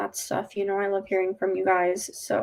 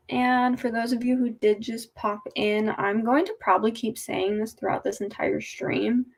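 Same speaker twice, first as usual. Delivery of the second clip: after wisdom teeth. Real, not acted. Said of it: "why I look and sound weird".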